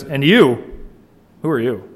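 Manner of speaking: "you" hit first and hard; stress on you. Shown as a demonstration. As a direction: lean on "you", then ask. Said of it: "He puts the "you" first to emphasize".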